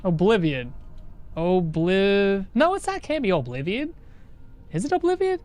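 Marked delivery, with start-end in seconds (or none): 4.7-5.4 excited yelling; loud, high, worked-up shout; loud sharp voice. Real, not acted. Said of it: "Why are you yelling?".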